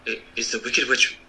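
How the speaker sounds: a touch of fear in the wizard voice; slightly trembling. A narrator's reading. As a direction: let the voice waver a little, nervous. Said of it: "it trembled a little".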